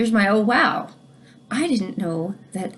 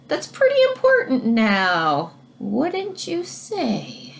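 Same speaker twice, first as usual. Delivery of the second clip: put-on reading to children. Teacher reads rhyming book aloud.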